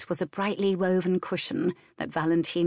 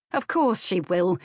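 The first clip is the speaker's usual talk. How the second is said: snapped. Acted. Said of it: "Nan snapped".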